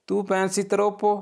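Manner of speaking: very slow, each syllable clear; slow model sentence. Shown as a demonstration. Teacher reading the Italian phrase for students, very slow. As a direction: read it out slowly for learners to repeat. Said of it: "तुम बहुत सोचते हो".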